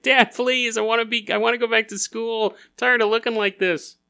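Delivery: half-whined, hammed-up plea; mock pleading kid. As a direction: beg Dad like a fed-up kid. Kids plead with dad.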